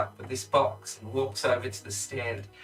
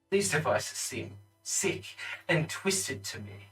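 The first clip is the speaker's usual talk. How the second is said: accusing lord; 5 semitones higher than usual. Acted. Lord accuses before the court.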